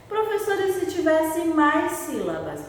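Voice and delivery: put-on high childlike pupil voice; a pupil asking the teacher eagerly; pupil's question. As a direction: ask it like a curious child. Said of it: "teacher voices a pupil's question".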